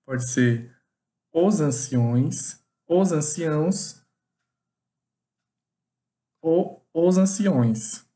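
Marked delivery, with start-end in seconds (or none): 1.3-4.0 slow demo. Shown as a demonstration. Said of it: "aceita as três variações". 6.4-8.0 slow demo. Shown as a demonstration. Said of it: "aceita as três variações".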